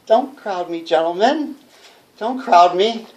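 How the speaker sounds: a hint of fear; frightened. Cornered, backing away.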